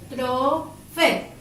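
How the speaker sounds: "Apóstrofe" very slowly as A, POS, TRO, FE; each syllable of "Apóstrofe" drawn out and set apart; split into syllables. Shown as a demonstration. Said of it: "Separa en sílaba". (apóstrofe separado en sílabas, muy lento)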